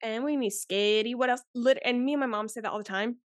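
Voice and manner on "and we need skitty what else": put-on little boy's country accent. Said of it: "we say it in that little boy's accent".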